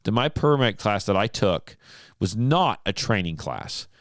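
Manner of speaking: a touch of hackles-up defiance; a listener huffing back at the radio host; mock indignant rant. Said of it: "raise my hackles".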